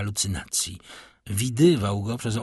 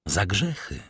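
grave, sombre pronouncement; ominous voice from the shadows; gloomy, solemn voice; 3 semitones lower than usual. A narrator's reading. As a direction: answer with dark solemnity. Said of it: "ozwał się ten sam głos".

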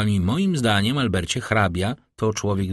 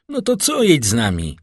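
eager call, pitched high and louder; 6 semitones higher, 5 dB louder than usual. A narrator's reading. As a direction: call his friend to come along. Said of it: "zawołał Albert". (Albert woła głośno do przyjaciela)

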